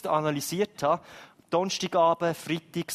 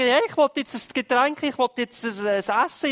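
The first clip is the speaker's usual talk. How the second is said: put-on demanding child; 7 semitones higher, 7 dB louder than usual. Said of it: "dann kommen sie und sagen".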